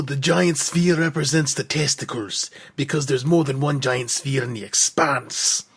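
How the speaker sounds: put-on slow slip into a Scottish accent. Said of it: "you kinda went into Scottish there".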